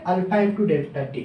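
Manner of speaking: formula spelled out slowly, word by word; slow dictation. Shown as a demonstration. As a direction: dictate it slowly so students can write. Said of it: "strain equal to क्या देखे?". (धीरे-धीरे लिखवाते हुए)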